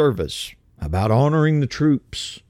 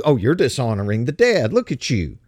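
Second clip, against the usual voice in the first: mock accuser. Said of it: "So they try to turn it into".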